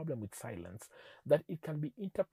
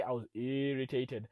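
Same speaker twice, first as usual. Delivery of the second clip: "irritated" with a stretched first syllable; a notch of mock annoyance on "irritated"; moderately irritated; 2 semitones lower than usual. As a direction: lean on the opening of "irritated", drawing it out. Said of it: "the intensity of what you're saying".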